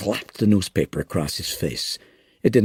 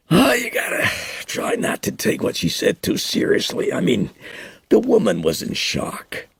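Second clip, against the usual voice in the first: lightly voiced Meadows. A narrator's reading.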